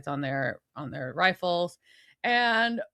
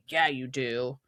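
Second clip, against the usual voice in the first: stern Reaper; 4 semitones lower than usual. Retold or imitated. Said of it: "And Billy's like".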